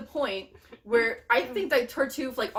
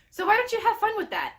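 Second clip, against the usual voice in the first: mocking taunt; 12 semitones higher, 4 dB louder than usual.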